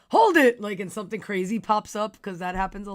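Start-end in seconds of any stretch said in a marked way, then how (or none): 0.1-0.6 loud retold shout. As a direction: yell it like an objection. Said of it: "be like".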